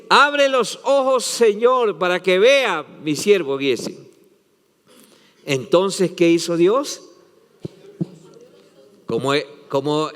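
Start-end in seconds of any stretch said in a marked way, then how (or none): 0.1-4.0 fervent cry. Acted. Elisha's prayer, cried out.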